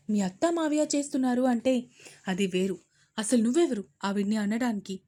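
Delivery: fast, stern scolding. Acted. Mother reprimanding her daughter, stern.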